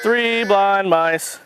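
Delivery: slow, sing-song Three blind mice; drawn out like the nursery rhyme, falling; slow nursery rhyme rhythm. Shown as a demonstration. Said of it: "You want your first quack to be louder".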